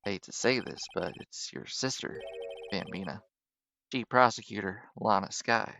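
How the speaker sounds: a lightly voiced old-timer lawman; cowboy detective voice.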